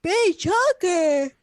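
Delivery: slow, loud, amused; delighted echo. Retold or imitated. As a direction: savour the words. Echoing the dog joke.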